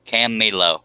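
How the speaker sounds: Camilo said slowly, kah-MEE-lo; pronounced Camilo. Shown as a demonstration. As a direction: Camilo spelled out carefully by sound. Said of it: "his name is pronounced Camilo".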